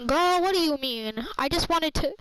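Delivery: indignant protest. Retold or imitated. Retold protest at rude friend.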